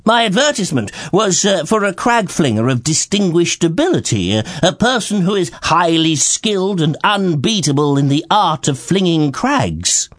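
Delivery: a king reciting his advert; stated. Acted. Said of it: "stated the king".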